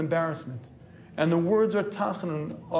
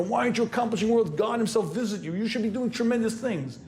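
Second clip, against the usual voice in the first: mild mock scream; 5 semitones higher than usual. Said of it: "his upper neshama was screaming".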